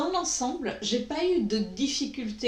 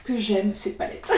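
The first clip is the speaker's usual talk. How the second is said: en riant; 4 dB louder than usual. Real, not acted. Ravie de retrouver ses palettes.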